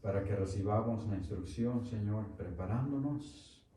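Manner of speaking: hushed, earnest prayer to the Father. Acted. Pastor praying with the congregation before the lesson, hushed.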